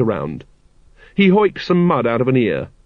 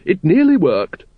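Lady Ramkin's voice; 7 semitones higher, 3 dB louder than usual. A narrator's reading. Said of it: "she said".

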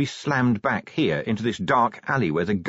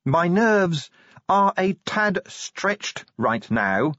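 slow, higher, strained snarl; howled; 9 semitones higher, much slower than usual. A narrator's reading. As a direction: stretch each word out near breaking. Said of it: "Angua howled".

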